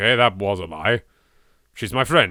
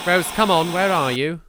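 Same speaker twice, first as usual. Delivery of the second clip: calling over static; 8 semitones higher, 4 dB louder than usual. Acted.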